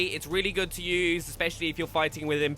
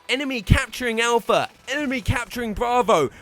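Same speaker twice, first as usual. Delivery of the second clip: raised, louder robotic game announcer callout; 5 semitones higher, 4 dB louder than usual. Retold or imitated. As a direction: bark it like a generic game announcer. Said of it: "in most games they're like".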